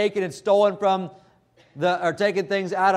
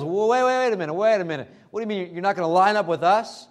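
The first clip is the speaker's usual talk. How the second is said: acted flustered protest, pitched up at the start; taken aback; 2 semitones higher than usual. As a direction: play Pharisees caught off guard and objecting. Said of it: "they're put back on their heels".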